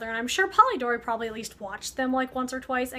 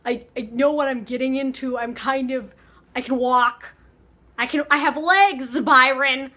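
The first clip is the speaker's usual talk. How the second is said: mock outraged Mary, growing louder; half-joking indignation rising to a louder end; mildly indignant; 5 dB louder than usual. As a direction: snap back, insulted at the offer. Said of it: "she's mad because she's like".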